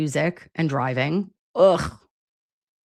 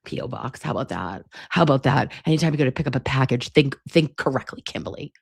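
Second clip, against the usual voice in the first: Nana impression; 3 semitones lower, faster than usual. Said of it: "That would be her too, to be like".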